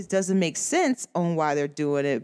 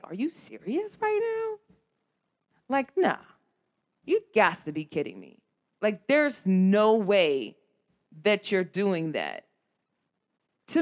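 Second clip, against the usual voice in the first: incredulous. Retold or imitated. Imagined reaction to nitpicking friend.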